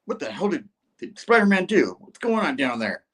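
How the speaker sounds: a touch of a furious villain; angry Doom. Retold or imitated. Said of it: "He's like".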